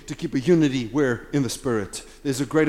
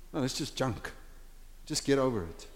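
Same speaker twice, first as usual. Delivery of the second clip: harsh; 2 semitones lower, 9 dB quieter than usual. Real, not acted. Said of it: "Sorry if I sound a little bit harsh".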